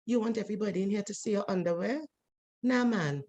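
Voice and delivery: soft, quick, gentle nudge; kindly. Retold or imitated. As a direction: coax him quietly and kindly. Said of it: "I just went very kindly".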